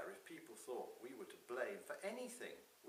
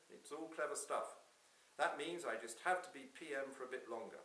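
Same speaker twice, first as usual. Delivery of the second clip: lightly voiced politician, pitched up a little; self-assured Prime Minister; 4 semitones higher, 5 dB louder than usual. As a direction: make a confident pitch to Santa.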